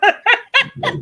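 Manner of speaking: loud, high mock wail; mock sobbing. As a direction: fake a big laughing sob. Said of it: "I'll just sob in the corner".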